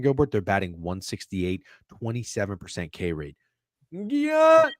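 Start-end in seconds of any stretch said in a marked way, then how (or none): 3.9-4.7 drawn-out, rising, high-pitched "Yeah"; high yell. Real, not acted. Bettor reacting to lopsided stats, high yell. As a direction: let out a loud, soaring yell.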